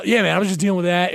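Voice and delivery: usual speaking voice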